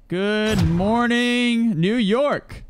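slow stretched-out morning announcer call; mock broadcaster good morning; showman greeting. Greeting the city like a host.

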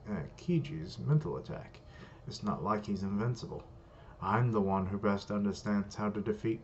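lightly British villain reading; slight British accent. Acted. Villain weighing up how to defeat Shigio, slight British accent. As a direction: read it with a hint of British. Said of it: "I gave him a British accent or a slight British accent".

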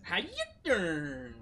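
copying the pickup line. Shown as a demonstration. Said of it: "Okay, go".

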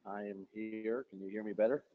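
faint and far off, barely audible. Real, not acted. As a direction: speak faintly, as if from a distance. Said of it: "it's a little faint".

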